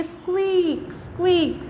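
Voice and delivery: drawn-out "स्क्वीक", twice; stretched squeaky word; shoe squeak imitation. Shown as a demonstration. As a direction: imitate squeaking shoes with a long vowel. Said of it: "कौन सी आवाज़ निकलेगी".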